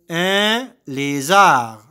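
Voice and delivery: "Un lézard" slow, at an even level; slow repeat. Shown as a demonstration. Teacher repeating "Un lézard" slowly for pupils. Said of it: "Je répète".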